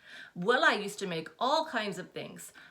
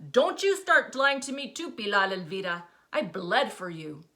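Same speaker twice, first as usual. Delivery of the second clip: full name, sharp rebuke; angry mother; 2 semitones higher, 7 dB louder than usual. A narrator's reading. Mother scolding daughter for lying, angry.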